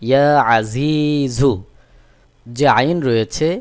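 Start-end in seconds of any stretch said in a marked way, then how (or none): 0.1-1.5 slow ইয়া আজিজু with a pressed throat sound opening আজিজু; mid-throat ain. Shown as a demonstration. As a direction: squeeze the ain of আজিজু from mid-throat, stretch the long vowels. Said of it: "গলার মধ্যখান থেকে একটু চাপ দিয়ে".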